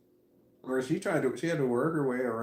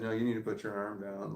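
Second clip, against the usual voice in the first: low, soft, controlled directive; calm, hushed instruction, retold; imitated calm voice; 4 semitones lower, 7 dB quieter than usual. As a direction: give the order quietly and evenly, imitating someone staying calm. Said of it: "saying it in a calm voice".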